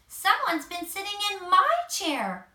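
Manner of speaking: yelping Mama Bear. A narrator's reading. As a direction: yelp at the moved chair. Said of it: "Mama Bear yelped".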